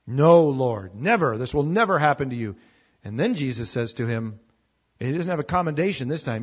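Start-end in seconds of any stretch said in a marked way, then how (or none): 0.1-2.6 mild acted protest, loud on the opening refusal; firmly object, hitting the first word hard; Peter's rebuke. Peter objects to Jesus foretelling his death, firm rebuke. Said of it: "Peter began to rebuke Jesus".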